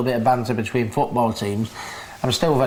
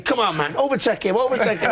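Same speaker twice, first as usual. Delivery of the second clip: imitating Floyd urging; 7 semitones higher than usual. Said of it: "he must be saying".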